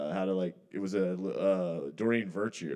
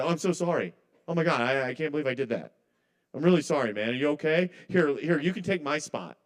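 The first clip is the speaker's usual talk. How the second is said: hammed-up overly sorry pleading, a touch higher; mock apology; 3 semitones higher than usual. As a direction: lay the fake apology on thick. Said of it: "I'm kinda doing a bit".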